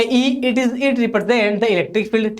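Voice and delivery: slow, even reading for students to copy; slow dictation. Shown as a demonstration. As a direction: dictate each word slowly so they can write. Dictating a definition. (धीमे-धीमे notes लिखवाना)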